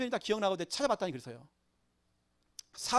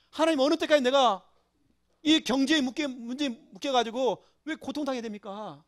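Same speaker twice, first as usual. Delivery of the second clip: mildly acted plea, pitched higher; pleading lament; 4 semitones higher than usual. Preacher voicing David's confession to God, pleading lament. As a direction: plead upward to God, letting each question fall away. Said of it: "그래서 다윗의 고백입니다".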